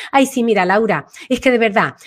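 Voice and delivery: affected voice demo. Shown as a demonstration. Coach shows Laura a disconnected tone, affected voice. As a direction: lightly demonstrate an ungrounded, affected voice. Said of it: "te pongo a hablar así".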